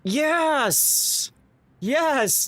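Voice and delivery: high, thrilled yes yes; excited cheer. Real, not acted. Streamer cheering a viewer's sub that hits the goal, excited. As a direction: cheer it out in disbelief. Reacts to big sub news.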